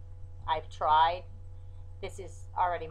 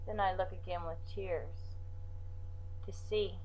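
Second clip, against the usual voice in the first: poem recital; 3 semitones higher than usual. Acted. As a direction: read it like a poem, with pauses.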